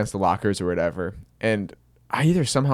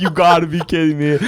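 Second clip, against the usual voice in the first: high, loud disbelief; can't believe it's happening; mortified disbelief; 8 semitones higher, 8 dB louder than usual. Retold or imitated. Embarrassed kid after his secret is shouted, high loud disbelief. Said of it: "I'm like".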